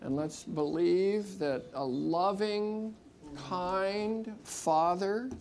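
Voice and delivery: prayer. Acted. Leads a healing prayer.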